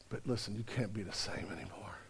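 whispered gently as Jesus; soft whispered Jesus. Acted. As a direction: breathe it like a secret kindness. Jesus speaks gently to woman.

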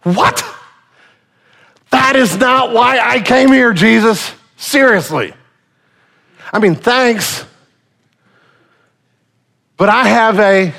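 playing the frustrated man on the mat; exasperated paralyzed man. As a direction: hold back annoyance at the gift. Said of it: "You're going".

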